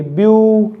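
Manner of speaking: ब्यूटीफुल broken as ब्यू... टी... फुल with long gaps; syllable by syllable. Shown as a demonstration. Teacher has students count vowels, ब्यूटीफुल in three separated syllables. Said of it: "बोल के देखिए".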